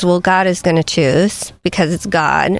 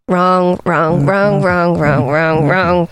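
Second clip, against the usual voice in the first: curt teacher corrections; slower than usual. Retold or imitated. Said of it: "with a red pen and go".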